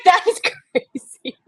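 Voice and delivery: high, loud, slow laugh through the words; giddy, laughing disbelief. Retold or imitated. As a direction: burst out laughing in shock. Stunned reaction to getting in.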